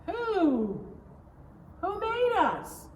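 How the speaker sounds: high, eager little voice; bursting with curiosity; excited child question. Acted. A little girl asks her daddy eagerly.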